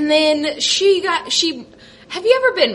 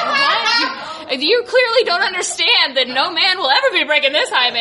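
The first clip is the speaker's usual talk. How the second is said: laughing. Retold or imitated. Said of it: "And I was like".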